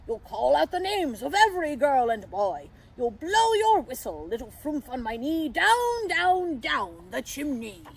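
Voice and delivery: loud, joyful proclamation easing down at the end; Santa. A narrator's reading. Santa giving the pixie his job, joyful shout. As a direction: proclaim it merrily, stretching the last words. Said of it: "Santa shouted with joy".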